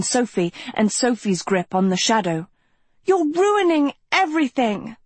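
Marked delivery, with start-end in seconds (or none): 3.0-5.0 howling. A narrator's reading. Sophie howls at Agatha while fighting her, howling protest. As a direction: howl it out, pitched way up. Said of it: "Sophie howled".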